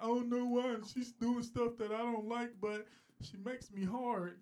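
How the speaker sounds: high-pitched, agonized white guy impression; white man voice. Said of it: "That's your white man?".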